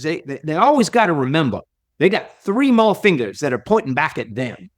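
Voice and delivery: put-on a fond, modest try at a Southern accent; Zig Ziglar's Southern accent. Quoting mentor Zig Ziglar's advice, light Southern accent. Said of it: "I'll try to do his accent".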